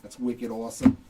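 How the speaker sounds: playful, lightly put-on Boston accent. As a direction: toss it out in mock Bostonian. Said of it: "say it with a Boston accent".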